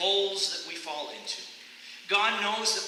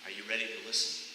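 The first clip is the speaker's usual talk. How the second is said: softer, lower, gentle question; 5 semitones lower, 3 dB quieter, faster than usual. Retold or imitated. God's voice gently answering the shouting runner. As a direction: ask it kindly and quietly. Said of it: "the gentle voice said".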